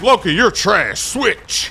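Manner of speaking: imitating an irate teammate, sharp jump on the last word; mock exasperated put-down; mock flaming. Teammate trashing the Loki player, mock flaming. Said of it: "it's just all flaming".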